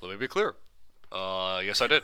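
presidential pause, then a firm yes; Obama impression. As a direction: clear the throat and admit it like Obama. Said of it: "an Obama impre-, impression".

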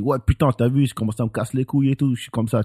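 fast, casual Parisian slang, ouais putain tossed off. Retold or imitated. Showing how Parisians really talk, fast and casual. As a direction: rattle it off like a Parisian street talker. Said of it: "the Paris French are very".

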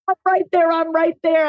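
eager on the brink. Retold or imitated. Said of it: "They're like".

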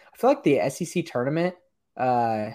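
choppy, lagging connection; words breaking up on a laggy call; laggy video call. Real, not acted. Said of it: "Sorry, I was lagging there".

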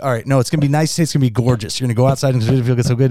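conversational weather report in the speaker's own register; present, relatable forecast. Shown as a demonstration. Weathercaster relating the forecast to listeners' lives, present and conversational. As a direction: talk the listener through the day. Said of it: "Versus just reading the weather".

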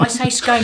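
"scone" with long o, like "bone"; irritating pronunciation. Shown as a demonstration. Teasing the others on purpose, "scone" as skohn. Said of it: "because it irritates you".

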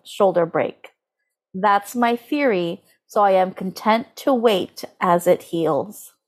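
slow, solemn reading aloud; dramatic reading. Shown as a demonstration. Reading the horoscope post to listeners, slow and solemn. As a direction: read it slowly like a grave pronouncement. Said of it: "ready for the sentence".

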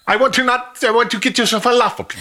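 put-on high laughing Middle Eastern accent; hammy Middle Eastern accent voice. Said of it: "Middle Eastern guy".

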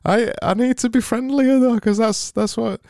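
high, brightly put-on cheer; over-the-top happy host; fake happy voice. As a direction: beam through every word. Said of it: "that voice".

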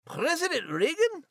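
high, startled squeak of a question; sudden high surprise; surprised question. Acted. Character startled by the Gipper line, high surprised squeak.

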